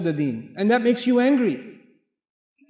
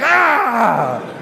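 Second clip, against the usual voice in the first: drawn-out exclaimed "ah"; mock outcry; 4 semitones higher, 7 dB louder than usual. Preacher imitating others' reaction, mock outcry. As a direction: let out a long, loud "ah". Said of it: "They'll be like".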